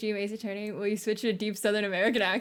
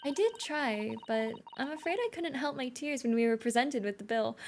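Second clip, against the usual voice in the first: soft, lightly raised character voice; regretful game character; 3 semitones higher, 5 dB quieter than usual. Acted. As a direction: voice a polite, tearful apology with restraint.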